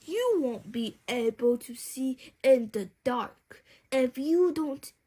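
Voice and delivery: lightly voiced uncle with a cautionary tone; a hint of a fussy uncle's warning. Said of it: "warned Uncle Bob".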